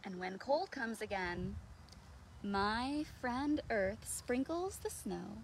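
put-on slow, gentle read-aloud to children; picture-book reading. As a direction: read it slowly and softly, like a bedtime story.

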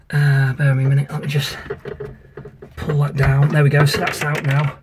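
slightly out of breath while talking; breathless after leaning under the sink. Real, not acted. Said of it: "I don't know why I'm out of breath".

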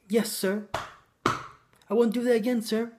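playing the obedient girlfriend, lightly; submissive heroine.

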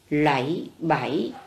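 "Lẫy bẫy" drawn out slowly, tones clear; slow model reading. Shown as a demonstration. Teacher models the word for pupils to repeat, slowly. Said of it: "Cô mời các em đọc lại từ này".

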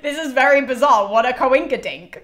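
hammed-up puzzlement, stressing very; mock bewildered. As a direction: Elektra faking surprise at a coincidence. Elektra quoted, mock puzzled.

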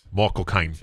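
low Cockney sign-off; Michael Caine. Acted. Dad signs off as the actor, Cockney accent. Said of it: "Michael Caine's an easy one".

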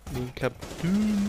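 slow, pompous captain voice; mock captain voice. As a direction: puff it up like a captain. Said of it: "You do that a lot".

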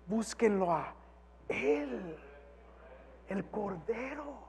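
ordinary talk, nothing marked

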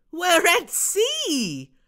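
slow, high, loud cry; amazed shout. Acted. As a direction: stretch it out in awe. Bob's stunned announcement.

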